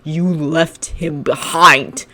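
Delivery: snarl. Acted. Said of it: "Shinso snarled".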